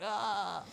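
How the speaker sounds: high-pitched "ah" of surprise; retold startled cry. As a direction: cry out as if hit by sudden light. Sudden dust in the sunlight.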